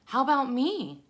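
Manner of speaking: high, loud little voice; high spider voice. Acted. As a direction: perk up high and eager. Third spider speaks.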